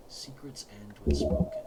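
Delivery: raspy unvoiced wall voice; hoarse whisper. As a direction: rasp it out like a stone. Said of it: "a hoarse voice".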